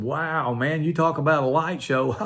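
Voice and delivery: stoned laughing at the lightning; chuckling wonder, a little high. Retold or imitated. Marvelling at the storm with his friend, laughing. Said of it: "we were laughing".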